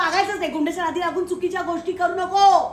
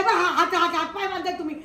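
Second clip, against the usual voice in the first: nervous laugh. Acted.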